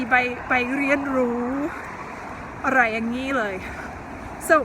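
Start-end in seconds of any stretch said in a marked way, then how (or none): none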